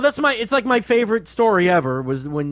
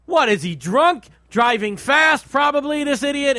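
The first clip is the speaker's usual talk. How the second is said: acted reaction; 7 semitones higher than usual. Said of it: "because you just go".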